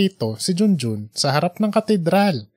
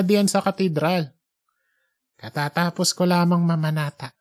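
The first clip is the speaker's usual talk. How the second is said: put-on young man's voice; 3 semitones higher than usual. Junjun answers politely.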